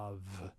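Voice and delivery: v with air blown through the lips; soft V. Shown as a demonstration. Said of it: "try and blow air through your lips".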